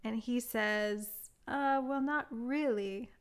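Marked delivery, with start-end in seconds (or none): 1.5-3.1 slow hint of Jacques's French accent; imitated French accent. Man corrects her translation of Tu me manques, light French accent. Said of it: "why do I wanna do his accent".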